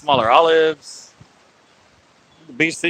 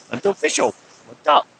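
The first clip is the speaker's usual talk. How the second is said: high-pitched attempt at an Asian accent; put-on Asian accent, higher voice; mock Asian accent; 11 semitones higher than usual. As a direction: slip into a joking Asian accent. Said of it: "I said it in an Asian accent".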